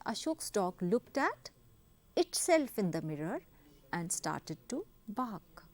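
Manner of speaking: very slow, word by word, reading an example sentence; slow dictation reading. Shown as a demonstration. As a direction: dictate it slowly so students can copy. (धीमे-धीमे बोलकर लिखवाना)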